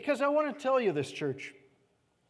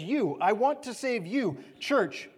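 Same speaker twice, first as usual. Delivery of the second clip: pleading; slower than usual. Acted. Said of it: "He's pleading with us".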